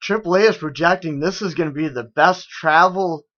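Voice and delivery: mildly mocking gleeful news report; lilting mock-gleeful announcement; gleeful newsreader. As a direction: imitate a cheery TV anchor, lightly. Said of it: "with a gleeful smile on their face".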